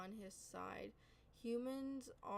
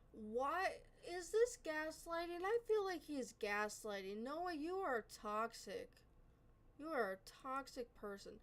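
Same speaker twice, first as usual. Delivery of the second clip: real frustrated outburst, higher in pitch at the start; angry outburst; 4 semitones higher than usual. Real, not acted. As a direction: snap back at Noah in real frustration. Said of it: "Sorry about that outburst".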